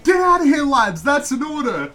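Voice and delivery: very loud, high commanding yell; Aussie officer shout. Retold or imitated. Officer orders soldiers to retreat from emus, shouting. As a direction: bellow the order at your men. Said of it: "You know".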